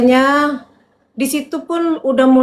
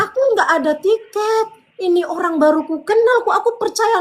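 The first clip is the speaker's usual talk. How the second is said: panicky tearful; 6 semitones higher than usual. Retold or imitated. Her panicked thoughts voiced.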